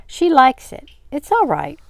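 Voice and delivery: high, loud, insistent comfort; reassuring. A narrator's reading. Wanda persuading Charlie all is well, reassuring. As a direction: reassure brightly over the commotion.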